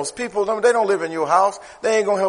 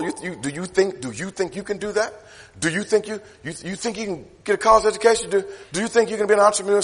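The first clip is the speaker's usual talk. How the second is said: softer, fast needling taunt; doubting mockery; 3 semitones lower, 4 dB quieter than usual. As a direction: needle them with quiet doubt. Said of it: "they said".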